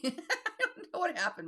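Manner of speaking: real amused laugh through the words. Real, not acted. Explaining the broken key to viewers, laughing.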